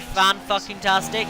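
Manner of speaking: slow, dripping sarcasm; mock praise for a bad moment; deadpan sarcastic fan-fucking-tastic. Real, not acted. Sarcasm after being passed.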